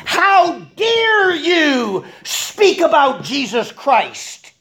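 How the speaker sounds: high, slow, booming mock outrage; indignant. High priest rebuking the apostles about Jesus, hammed-up indignation. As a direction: stretch the words with haughty, hammed-up offence. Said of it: "That's what indignance is".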